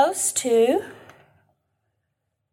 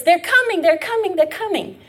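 higher urgent warning cry, fading each time; watchman's alarm call; 7 semitones higher than usual. Acted. Watchman on the wall warning the city, urgent calling out.

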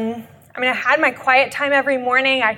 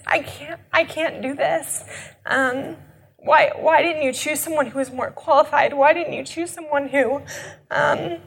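a broken plea to God, holding back sobs; tearful prayer; 2 semitones higher than usual. Retold or imitated. Retelling her breaking-point prayer to God, tearful and pleading. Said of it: "told him, like".

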